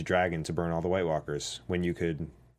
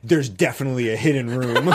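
laughing through a mock line; giggling while quoting her; 5 semitones higher, 6 dB louder than usual. Mocking character's line, laughing.

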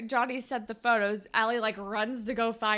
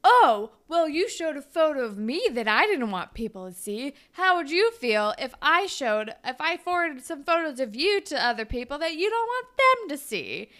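monster; 4 semitones higher, 5 dB louder than usual. Retold or imitated. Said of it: "he turns into a monster".

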